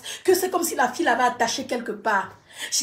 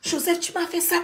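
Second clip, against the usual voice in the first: spoken aloud, pained; pained accusation repeated; voiced reproach; 4 semitones higher, 6 dB quieter than usual. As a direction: say it aloud, hurt.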